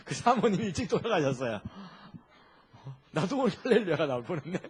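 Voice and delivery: laughing at almost saying hallelujah. Real, not acted. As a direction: chuckle at his own slip mid-sentence. Preacher laughs at his own slip.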